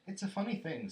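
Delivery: lilting Rabbit character voice; Rabbit, conversational. A narrator's reading. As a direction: chat as a fussy storybook Rabbit.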